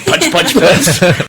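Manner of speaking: very slow "punch, punch, punch". Retold or imitated. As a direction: drag each word out. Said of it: "grabbed me by the neck and said".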